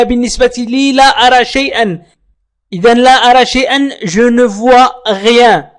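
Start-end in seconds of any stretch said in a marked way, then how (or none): 4.0-5.7 "je ne vois rien" spoken very slowly, word by word; slow demo. Shown as a demonstration. Teacher to learners, modelling the phrase very slowly. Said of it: "teacher models French phrase".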